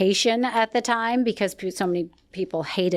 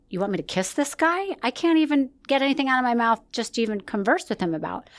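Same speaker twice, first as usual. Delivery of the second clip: higher-pitched disbelief, re-enacted; retold incredulous protest; 3 semitones higher than usual. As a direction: push back at the producers in disbelief. Acted protest at producers' kiss demand.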